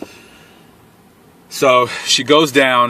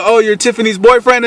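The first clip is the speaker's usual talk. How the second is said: high, raised voice of recognition; imitated gunman; 8 semitones higher, 4 dB louder than usual. Gunman realising who the stranger is, high loud imitation. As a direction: play the stranger suddenly recognising him.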